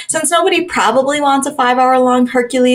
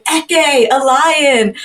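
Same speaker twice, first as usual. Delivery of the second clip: retold scream; 5 semitones higher, much slower than usual. High schooler recalling her Latin video, mock screaming. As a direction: imitate a scream without full volume. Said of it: "we were screaming".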